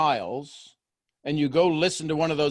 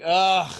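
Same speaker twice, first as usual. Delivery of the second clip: louder, put-on "ugh"; mock reluctant groan; 5 dB louder than usual. Imitating a caller who needs the call, mock groan.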